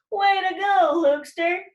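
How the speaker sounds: high, loud cheer; gleeful cheer. Retold or imitated. Peter cheering Luke's accident. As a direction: cheer him on, delighted. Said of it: "he yelled".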